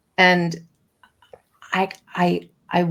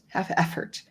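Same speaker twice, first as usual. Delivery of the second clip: whispered; 6 dB quieter than usual. Real, not acted. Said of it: "oh, I was just gonna swear".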